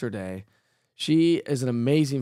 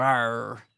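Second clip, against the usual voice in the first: pirate arr; 3 semitones lower than usual. Pretend. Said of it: "Give me your best pirate right now".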